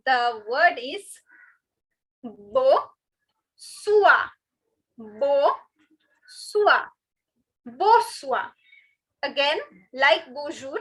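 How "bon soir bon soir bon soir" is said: bo sua in separate syllables, no n; unstressed N. Shown as a demonstration. Teacher modelling good evening in French, syllable by syllable. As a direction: say "bo sua" with bo left open. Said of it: "we do not stress on this N".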